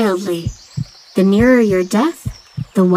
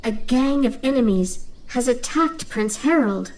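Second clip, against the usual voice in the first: talking dove; 4 semitones higher, 6 dB quieter than usual. Acted. Doveling brings bad news.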